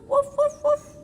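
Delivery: high playful woofs; barking dog. Acted. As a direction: bark a goodbye. Saying bye to the dog.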